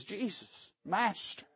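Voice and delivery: Jesus, Master dropped to a soft, hushed plea; bow your voice down, almost breathing it; hushed surrender. Retold or imitated. Preacher voicing the man submitting to Jesus, hushed. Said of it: "He says".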